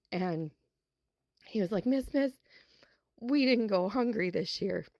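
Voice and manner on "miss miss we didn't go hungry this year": higher, rushing up then whispering the good news; an eager boy calling out, then hushing to share a secret; excited child. Retold or imitated. Boy running up to his teacher after Christmas, excited then whispered.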